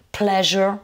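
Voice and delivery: Pleasure said with a voiced zh; zh sound. Shown as a demonstration. Teacher models the zh sound for students. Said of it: "le S qui se prononce comme un je".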